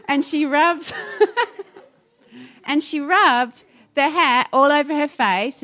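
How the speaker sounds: words broken up by real laughter; can't keep a straight face telling it; laughing while telling. Real, not acted. Telling a funny horse story.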